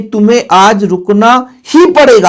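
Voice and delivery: ही pressed with a falling tone; ही carries the emphasis; stress on ही. Shown as a demonstration. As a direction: lean on the word ही. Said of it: "अतिरिक्त भार दे रहे हैं उस पे".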